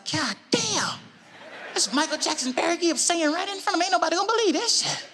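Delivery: high-pitched starstruck disbelief; amazed. Retold or imitated. Guest watching two stars sing in front of him, amazed. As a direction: marvel in a high, incredulous voice.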